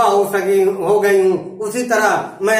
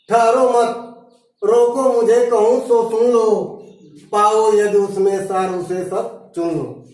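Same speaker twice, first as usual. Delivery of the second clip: measured poem lines with line breaks; verse recitation. Acted. Teacher reciting Kaikeyi's plea to be heard, measured verse recitation.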